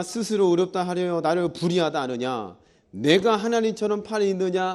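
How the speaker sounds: scripture reading. Acted. Pastor reads God's challenge to Job aloud, scripture reading.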